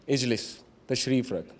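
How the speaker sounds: soft, low offer of a seat; hushed, kindly retold request; gentle invitation. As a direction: quietly settle a nervous youngster, as retold. Prophet kindly seating the youth.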